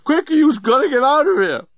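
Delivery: high, urgent call; screamed warning. A narrator's reading. Journalist warning Nettie about the scent, screamed. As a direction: call her name in high-pitched panic. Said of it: "he screamed".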